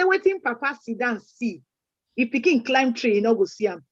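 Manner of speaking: proverb recited in Nigerian Pidgin; pidgin English. Shown as a demonstration. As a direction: say it in broken English, Pidgin-style. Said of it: "I will say it in pidgin English".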